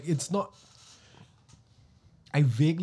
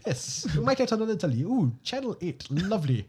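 a mild mock British accent, a bit higher; bad British accent; 6 semitones higher than usual. Mocking a polite British ghost, bad British accent. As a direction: attempt a poor British toff. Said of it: "how terrible that accent was".

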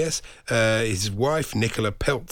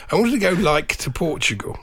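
higher, mock teen whine; imitating teen speech; 5 semitones higher than usual. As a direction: play the kid saying like. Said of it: "You sound, you sound a bit old".

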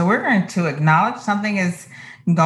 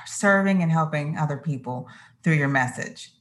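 calm self-talk. Retold or imitated.

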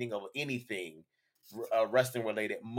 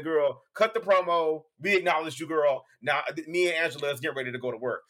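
sassy diva voice; 2 semitones higher, 3 dB louder than usual. Retold or imitated. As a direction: put them in their place, diva. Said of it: "it was giving".

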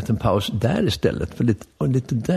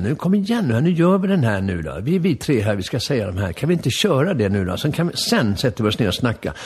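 impatient urging. Retold or imitated. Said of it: "Jag är lite otålig där".

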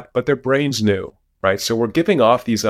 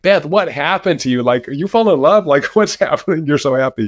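bright, higher and lively, with a laugh; light, amused delight at her good mood; excited greeting; 5 semitones higher than usual. Retold or imitated. Boss greeting his happy grad student, excited and amused.

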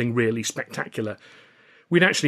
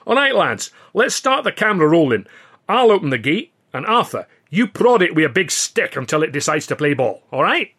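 much higher, louder boss call; rallying call; 6 semitones higher, 8 dB louder than usual. A narrator's reading. Billy calling the crew to start, loud. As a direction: hype the crew up.

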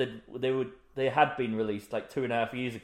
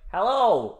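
loud higher hello; echoing Grinch; 6 semitones higher, 7 dB louder than usual. Retold or imitated. Imitating the Grinch calling into the echo, loud. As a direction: call out into the echo. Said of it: "when he's like".

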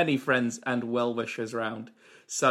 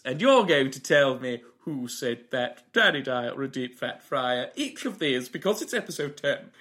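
The host. Acted. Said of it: "It's the host".

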